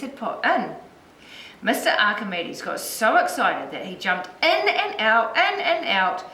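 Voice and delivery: put-on lilting read-aloud for young children; story narration. A narrator's reading. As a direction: tell it like a picture book, with lifted key words.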